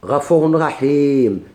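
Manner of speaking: غفور رحيم recited very slowly, the vowels held long; slowly drawn recitation. Shown as a demonstration. Teacher to students, reciting غفور رحيم very slowly. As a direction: draw out غفور رحيم syllable by syllable. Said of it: "مثلًا شوف".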